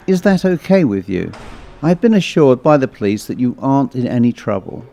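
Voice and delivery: mildly formal nurse; slightly official, measured announcement. Acted. Nurse telling patient a policeman waits outside, mildly formal. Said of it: "said in a more formal voice".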